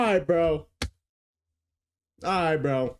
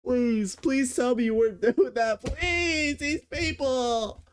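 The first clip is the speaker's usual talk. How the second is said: high-pitched horrified pleading; appalled; 10 semitones higher, slower than usual. Real, not acted. Reacting to the book reviewer, appalled and pleading. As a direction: beg them to say it isn't true.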